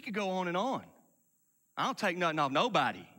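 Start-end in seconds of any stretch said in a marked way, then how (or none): 1.8-3.1 mock tough talk. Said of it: "People talk like this".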